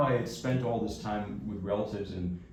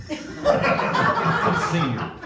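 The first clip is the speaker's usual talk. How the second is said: Texan boss; 8 semitones higher, 8 dB louder than usual. Retold or imitated. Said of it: "And he says".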